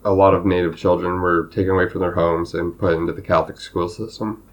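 losing voice, a little hoarse. Real, not acted. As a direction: talk through a tired, hoarse throat. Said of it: "I'm losing my voice".

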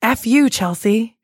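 slow, grumbling talking-back voice; grumpy voice persona. Pretend. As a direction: speak as your own cranky voice. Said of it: "turns out my voice is like".

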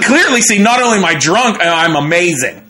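telling the cop he is amazing, high and cocky; cocky excitement. Retold or imitated. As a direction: brag with a grin. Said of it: "I'm like".

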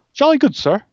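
high, prim Eastern European butler; a put-on Eastern European servant voice; Eastern European accent. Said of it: "Eastern European accent".

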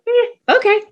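high-pitched little "eh, okay"; child's easy agreement. Acted. Kids answering a firm parent, easygoing high voice. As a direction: shrug it off in a small high kid voice. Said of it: "they're like".

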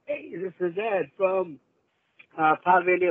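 talking while eating lunch; words round a bite of food; mouth full. Real, not acted. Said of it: "I'm sorry, I'm eating lunch".

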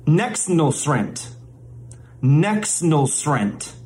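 Nexnulsrent said slowly as one smooth made-up word; mock-lesson pronunciation. Shown as a demonstration. Mock language teacher introduces the first Bidenese word, slow careful pronunciation. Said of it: "we'll get the proper pronunciation".

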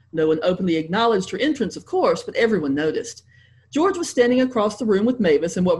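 lively read-aloud with light character voices; story narration. Acted. Author reading her novel aloud to a convention audience, lively. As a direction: read it to a con audience, bright and engaged.

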